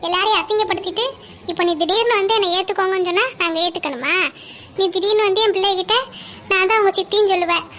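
firm, indignant scolding; angry rebuke. Acted. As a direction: tell off an estranged sister with rising indignation. Older sister angrily rebuffs younger sister.

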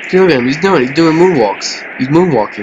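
high, loud amused excitement; delighted. Real, not acted. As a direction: marvel at the moonwalk. Delighted at player's moonwalk.

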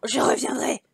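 mildly shouted vow; crying out. A narrator's reading. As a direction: call it back while being thrown out. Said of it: "en criant".

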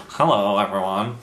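stuffed-up goose honk from a cold; blocked nose, honking like a goose. Real, not acted. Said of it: "I sound like a goose at the moment".

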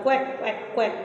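quick quacks like a duck; light playful quacking. Shown as a demonstration. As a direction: quack for the class. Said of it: "I can quack like a duck".

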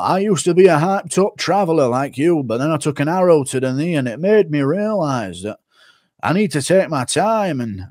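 a hint of the weary Whiterun guard; Aspinall as Skyrim guard. Streamer doing Aspinall as a Skyrim guard, mild. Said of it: "Aspinall Skyrim quote".

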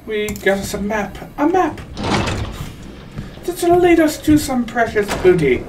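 playful pirate voice; mock pirate. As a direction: gloat like a pirate over treasure. Pirate talk about booty.

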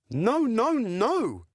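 lightly voiced defiant little pig. Little pig refusing the wolf, lightly voiced.

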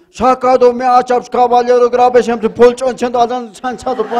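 high, loud La Paz paceño slang; paceño accent. Acted. Woodcutter lamenting to the angel in a high paceño accent. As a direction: rattle it off like a paceño. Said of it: "A lo paseño".

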